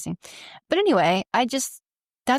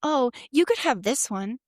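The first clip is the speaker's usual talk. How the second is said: sweetly catty; 3 semitones higher than usual. Retold or imitated. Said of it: "kinda bitchy".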